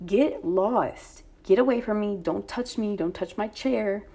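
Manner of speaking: retold firm brush-off; really rude. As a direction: replay telling him off, emphatically. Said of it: "I'm being really rude".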